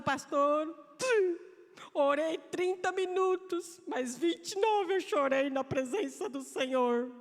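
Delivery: a hint of a complaining sister; quoting a church sister. A church sister complaining to the pastor, lightly voiced. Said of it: "tem irmãs que falam".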